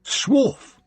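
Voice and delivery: high-pitched, savoured single word; approving. A narrator's reading. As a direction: say it with relish and approval. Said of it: "said Nanny Ogg approvingly".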